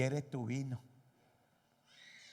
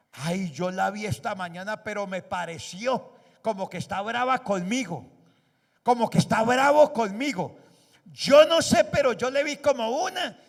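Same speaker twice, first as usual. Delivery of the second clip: high, loud mock gossip building to a squeal; 7 semitones higher, 10 dB louder than usual. Church member gossiping about a sister who seemed angry, rising mock outrage. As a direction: ham up a nosy churchgoer rising into shrill outrage.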